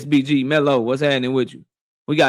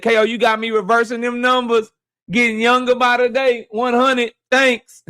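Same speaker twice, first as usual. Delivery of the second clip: lightly raised mock voice of the viewer; a touch higher, playing the fan's message; reading a viewer's chat; 6 semitones higher than usual. Streamer reading a viewer's Super Chat in a lightly raised voice. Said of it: "He say".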